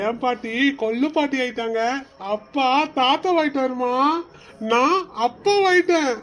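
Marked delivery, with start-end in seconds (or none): 4.7-6.1 higher, slow, beaming announcement; proud joy. Acted. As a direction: savour it, proud new father. Husband reveals he's a father.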